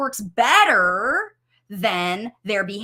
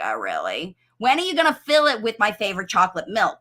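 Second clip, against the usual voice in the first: low then fast unimpressed comeback; mock sarcastic child; sarcastic toddler; 3 semitones lower, faster than usual. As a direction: roll your eyes at the obvious. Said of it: "They're all like".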